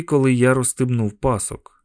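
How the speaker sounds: plain reading voice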